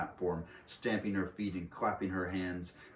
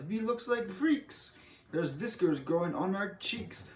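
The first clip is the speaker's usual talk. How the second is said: put-on child shouting; 12 semitones higher than usual. Child sees whiskers on cheeks, high squeaky mock wail. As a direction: wail it like a frightened kid. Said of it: "Another shouts".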